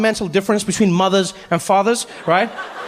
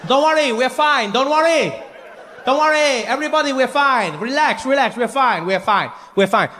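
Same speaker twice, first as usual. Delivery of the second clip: reassuring showman; 4 semitones higher than usual. Retold or imitated. Snake charmer reassuring crowd.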